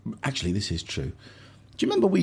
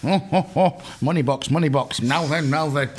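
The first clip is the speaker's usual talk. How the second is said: mock Savile catchphrase voice; light Savile impression, teasing; Jimmy Savile impression. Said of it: "we're not allowed to do Jimmy Savile".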